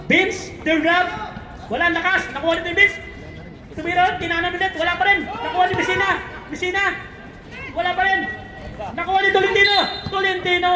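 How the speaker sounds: lively basketball commentary; name each player as the ball moves. Real, not acted. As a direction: courtside commentator following the action. Live basketball play-by-play.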